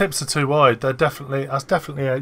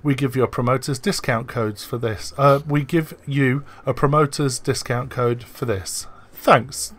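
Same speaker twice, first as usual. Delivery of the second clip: reading out a message. Retold or imitated. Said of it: "this is a DM".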